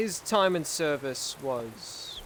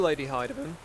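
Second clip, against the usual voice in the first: voice crack; 2 semitones lower than usual. Real, not acted. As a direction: voice cracking on the name. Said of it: "Ah, God, voice crack".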